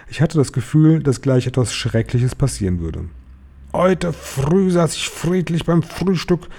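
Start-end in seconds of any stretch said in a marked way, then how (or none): 3.7-6.5 high, slow witch voice; shrieking witch. A narrator's reading. Grand High Witch ranting about her breakfast, high drawn-out witch voice. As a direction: draw it out high, without much volume. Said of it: "schrie die".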